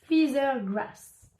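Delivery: slow, careful English with a French accent; halting French-accented English. Real, not acted. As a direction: struggle through the English name as a French speaker. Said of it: "je sais pas parler anglais".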